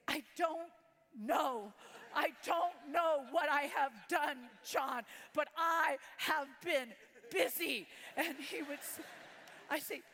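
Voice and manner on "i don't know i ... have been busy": raised, exasperated protest to her husband; defensive protest. Retold or imitated. Wife defends her day to her husband, exasperated.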